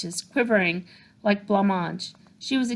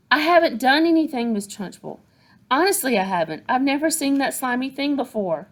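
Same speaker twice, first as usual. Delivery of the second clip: put-on higher, pleading little girl; 6 semitones higher, 4 dB louder than usual. A narrator's reading. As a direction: protest your innocence. Matilda protesting innocence.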